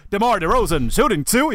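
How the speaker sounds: mock announcer with a lifted ending; imitated Spurs announcer. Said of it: "sitta hemma och bara".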